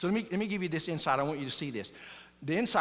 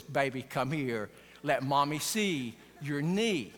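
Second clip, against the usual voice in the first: tender mom; 3 semitones lower, slower than usual. Retold or imitated. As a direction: coax the hurt little boy in gently. Mom comforts her hurt boy.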